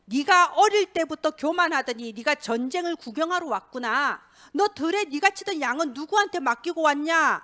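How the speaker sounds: mildly acted scolding; a touch of big-brother anger; angry eldest brother. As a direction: tell off the youngest brother, lightly hammed. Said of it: "큰형이 이제 다윗을 보고 막 화를 내요".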